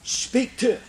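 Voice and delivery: high, loud hunter's holler; a big swamp holler urging the dogs on. Retold or imitated. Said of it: "old John Eubanks would holler".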